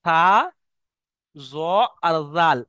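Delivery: থা, জ, জাল with the tongue lightly between the teeth; lightly pronounced. Shown as a demonstration. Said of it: "হালকাভাবে উচ্চারণ হয়".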